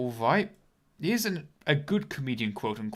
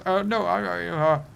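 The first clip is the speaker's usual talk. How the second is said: higher, louder stammering excuse; flustered culprit; 4 semitones higher, 5 dB louder, slower than usual. Acted. Culprit answering the licence inspector, flustered. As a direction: stumble over a hammed-up excuse.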